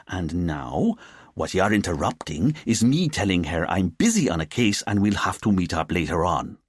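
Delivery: easygoing officer explaining himself to his boss; officer defending himself. Acted. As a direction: protest first, then talk your way out. Officer's character voice.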